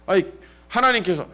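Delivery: ordinary talk, nothing marked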